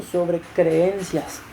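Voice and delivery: drawn out very slowly so they listen; slow each syllable of creencias; stressed slowly. Shown as a demonstration. Preacher slows down to make the women listen, slow stress. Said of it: "escuchen esto".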